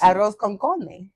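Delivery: "Arroz con carne" said slowly; correcting pronunciation. Shown as a demonstration. Correcting a co-host's Spanish, slow pronunciation of "Arroz con carne". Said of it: "C A R N E".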